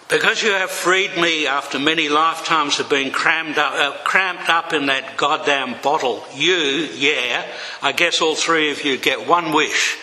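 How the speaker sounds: grand genie announcing the wish. Acted. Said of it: "The genie spoke".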